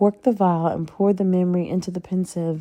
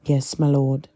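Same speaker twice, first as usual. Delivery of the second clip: tight, clenched-jaw reply; through gritted teeth; 4 semitones lower, 3 dB louder than usual. Acted. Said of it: "Draco gritted his teeth".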